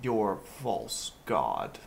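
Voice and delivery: low, slow scornful voice; scornful god voice. Acted. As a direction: sneer it out slowly. God scorns their faith.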